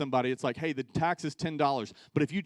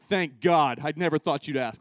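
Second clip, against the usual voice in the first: louder burst of relief; excited relief; 7 dB louder than usual. Retold or imitated. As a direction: blurt it out, overjoyed. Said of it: "he's so excited to leave".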